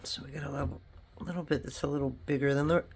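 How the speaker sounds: hiccuping mid-sentence; talking through hiccups. Real, not acted. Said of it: "got the hiccups".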